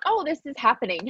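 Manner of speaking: imitated nonchalance. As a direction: toss it off as a mock-casual quote. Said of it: "you said it so, like, nonchalant".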